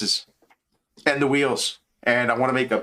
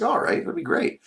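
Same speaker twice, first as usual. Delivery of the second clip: mock girlfriend; 14 semitones higher than usual. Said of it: "She's like".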